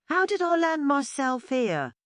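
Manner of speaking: high, puzzled turtle. A narrator's reading. Terence caught in the weed, asking himself, puzzled.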